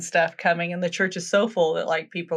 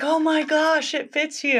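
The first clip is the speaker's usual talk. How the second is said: high-pitched, astonished prince; mock amazement; 10 semitones higher than usual. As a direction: imitate the prince gushing in wonder. Prince amazed the shoe fits.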